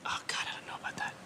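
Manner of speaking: breathless quick whisper. Real, not acted. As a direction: mutter it under your breath fast. Dread at Spanish question.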